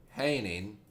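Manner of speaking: "hanging" set apart by a pause; emphasis on "hanging". Real, not acted. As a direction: drop "hanging" low and soft after a beat. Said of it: "I put emphasis on that word".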